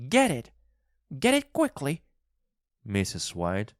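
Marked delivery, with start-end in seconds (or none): 0.1-2.0 very high, loud command; high-pitched, feverish wife; urgent cry. A narrator's reading. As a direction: cry out frantically to hurry him. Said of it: "cried again".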